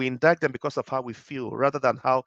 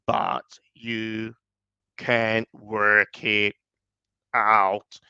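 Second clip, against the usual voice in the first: lower, very slow slurred American drawl; deep slurry American; 4 semitones lower, much slower than usual. Shown as a demonstration. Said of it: "a deep voice that is very slurry and American".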